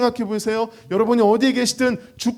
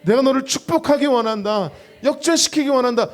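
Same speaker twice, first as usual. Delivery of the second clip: voice of God. Acted. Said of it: "오늘도 주님은 말씀하고 계세요".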